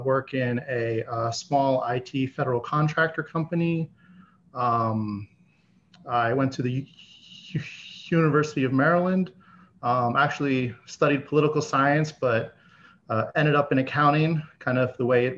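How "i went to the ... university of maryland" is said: stuttering. Real, not acted. Stuttering guest repeats opening sound.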